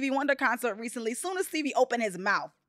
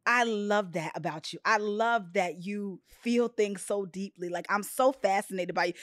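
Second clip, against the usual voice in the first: tender quote; 4 semitones lower, 4 dB quieter than usual. Retold or imitated. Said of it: "he was like".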